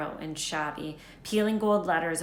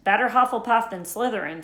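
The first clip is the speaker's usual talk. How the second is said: dark; 4 semitones higher, 7 dB louder than usual. Acted. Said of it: "said Hagrid darkly".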